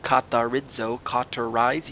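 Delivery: katharizo and cauterize said carefully side by side; sound-alike demo. Shown as a demonstration. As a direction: sound out katharizo, then cauterize, to show the likeness. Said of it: "you hear it in there?".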